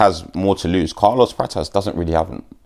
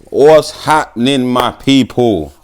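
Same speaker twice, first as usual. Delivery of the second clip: slow, loud, higher hello; hyped greeting; 5 semitones higher, 5 dB louder, slower than usual. Real, not acted. Opening the vlog to viewers, hyped greeting. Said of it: "vlog greeting".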